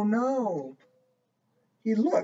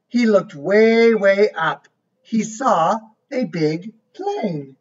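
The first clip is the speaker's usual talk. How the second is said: lively storybook voice, each line set apart; reading to a child; 4 dB louder than usual. A narrator's reading. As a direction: read it like a bedtime book for a little one. Reads picture book aloud.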